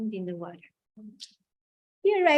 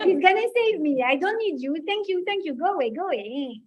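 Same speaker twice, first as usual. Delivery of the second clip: put-on Maurice Benguigui accent; 4 semitones higher than usual. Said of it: "the accent of Maurice Benguigui".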